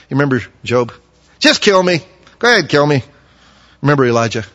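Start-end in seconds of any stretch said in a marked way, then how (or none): 1.4-3.0 despairing outcry. Acted. Job's despair voiced.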